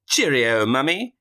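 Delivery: slow, hammed-up British accent; Blue Raja. Son correcting himself to Mum, mock British accent. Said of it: "And he goes".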